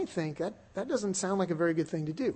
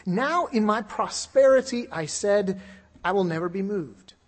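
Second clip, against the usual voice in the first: proud boast; 5 dB louder than usual. Retold or imitated. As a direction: boast it like a man who can't fall. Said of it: "very proudly".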